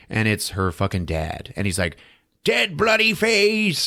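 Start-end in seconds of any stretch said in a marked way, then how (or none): 2.4-3.9 high, slow, drawn-out ghastly cry; hammed-up walking corpse voice; mock ghoul. Dead dad sitting up in the dream, mock ghoul cry.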